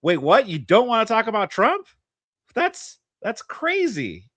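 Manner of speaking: high, hammed-up shock, slowing at the end; a sarcastic wait, what; mock disbelief. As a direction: play fake astonishment. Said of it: "And I was like".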